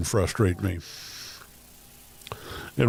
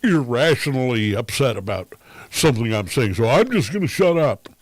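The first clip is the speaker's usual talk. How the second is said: passive-aggressive mock; 5 semitones higher, 3 dB louder than usual. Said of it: "And then like".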